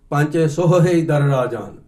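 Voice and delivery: ਪੰਜ ਸੋਹੇ ਦਰ ਰਾਜਾਨ recited slowly, each syllable spelled out; slow careful recitation. Shown as a demonstration. Teacher showing students how the line should be said, slow and careful. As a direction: read ਸੋਹੇ slowly, sounding out every letter. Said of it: "ਐਂ ਕਹਿਣਾ ਸੀ".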